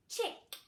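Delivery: Chick with a crisp, hard ch; stressed ch. Shown as a demonstration. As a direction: snap out the ch in Chick. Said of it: "It's got the ch sound".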